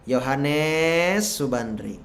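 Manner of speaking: slow, drawn-out name call. Acted. God summons a servant by name, drawn-out call. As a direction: draw out the first name, then drop.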